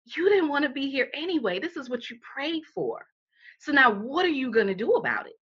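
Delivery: a patient inner voice nudging her; lightly voiced calm spirit. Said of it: "spirit kicked in and said".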